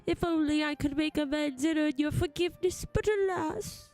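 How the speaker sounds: earnest, theatrical apology; remorseful rescued alien. Acted. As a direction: lament your guilt, drawing out the last words. Voices remorseful game character.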